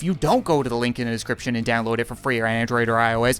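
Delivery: hurried salesy mascot pitch; rushed ad read. Acted. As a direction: rattle off the pitch in a hurry.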